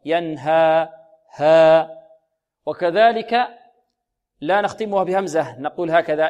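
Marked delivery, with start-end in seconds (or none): 0.1-1.9 ينهى closed with a loud hamza stop; wrong hamza ending. Shown as a demonstration. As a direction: end ينهى on a glottal stop to show the error. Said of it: "هذا خطأ". (ينهى مختومة بهمزة خطأ)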